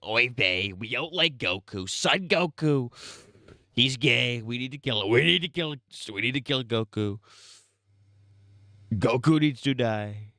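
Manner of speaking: mock Yiddish accent, hammed up; hammy old-country Yiddish voice. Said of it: "The Jews were like".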